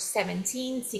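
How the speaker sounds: put-on seventeen with heavy stress on final -teen. Teaching English pronunciation: stress on last syllable of seventeen. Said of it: "a última sílaba vai ficar forte".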